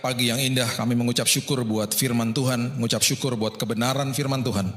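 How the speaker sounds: earnest, measured prayer voice; closing prayer. Acted. Preacher praying over the congregation, earnest prayer voice. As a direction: lead the congregation in thanksgiving.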